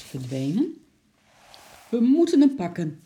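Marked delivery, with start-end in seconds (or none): 1.9-3.0 loud, high rallying cry; urgent call. A narrator's reading. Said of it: "riep ze naar juffrouw Dop". (dringend roepend)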